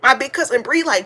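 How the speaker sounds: ordinary delivery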